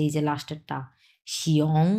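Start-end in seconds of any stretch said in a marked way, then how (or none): 1.3-1.9 শিয়ং gliding "shi" into "ong"; "ong" ending. Shown as a demonstration. Teacher showing the last sound, "shi-ong" glide. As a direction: say শিয়ং with a clear final "ong". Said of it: "আমি কিন্তু ওং উচ্চারণ করেছি".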